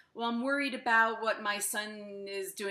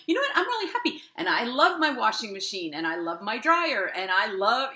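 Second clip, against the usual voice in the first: mock cheerful; 7 dB louder than usual. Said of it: "into being like".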